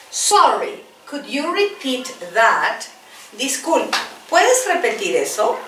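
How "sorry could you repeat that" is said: slow, even English with a level "Sorry"; slow model phrase. Shown as a demonstration. Teacher repeats it for the class, slow and level. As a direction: say "Sorry, could you repeat that?" slowly and evenly. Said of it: "Repeat after me".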